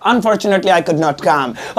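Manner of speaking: Unfortunately I could not come, drawn out slowly; slow model sentence. Shown as a demonstration. Teacher slowly modelling an apology sentence for learners. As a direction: say it slowly so the class can follow. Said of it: "की जगह बोलेंगे".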